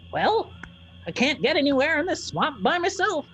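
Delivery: put-on high, creaky little old woman; tiny old lady voice. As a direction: play a bossy tiny crone, way up high. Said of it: "she goes".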